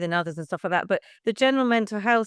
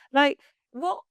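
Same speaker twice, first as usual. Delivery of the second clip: incredulous; 6 semitones higher than usual. Real, not acted. Mocking the breastfeeding worry.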